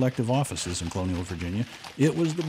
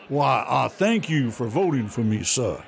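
gracious candidate. Retold or imitated. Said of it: "candidate is gonna step up and say".

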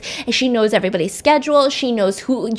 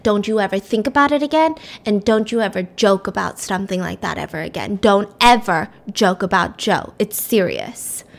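stern nurse warning; 3 semitones lower than usual. Retold or imitated. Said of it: "And she was mad".

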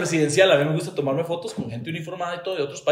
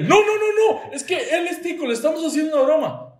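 laughing protest; 13 semitones higher, 3 dB louder than usual. Retold or imitated. Cedric laughing explains joke.

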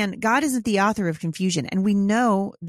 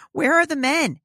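imitating her own cry; 9 semitones higher, 4 dB louder than usual. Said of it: "I'm just like".

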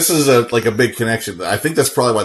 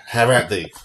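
bold swashbuckling bravado; 3 semitones higher than usual. Retold or imitated. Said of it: "stuff like that".

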